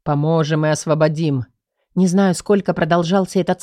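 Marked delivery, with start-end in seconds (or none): 0.0-1.5 slow, lower, otherworldly spirit voices; ghostly chorus of spirits. A narrator's reading. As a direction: sound like a hum of many dead voices. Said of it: "слышала гул голосов".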